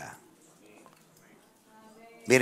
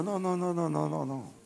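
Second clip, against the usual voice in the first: soft, higher run of no's; soft dismissal; 6 semitones higher, 9 dB quieter than usual. Real, not acted. Preacher correcting the idea of only commandments, soft dismissal. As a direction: drop the volume and lift the pitch to brush it aside. Waves away a too-narrow idea.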